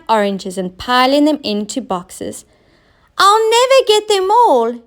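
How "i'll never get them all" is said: high loud despairing wail; despairing cry. Acted. Oscar overwhelmed by oranges, high despairing wail. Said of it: "he cried".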